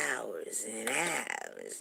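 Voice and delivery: slow, stretched "hours and hours"; drawn-out boast. Retold or imitated. Friend boasting about her man's lovemaking, drawn out. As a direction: stretch out each "hours" as an imitated brag.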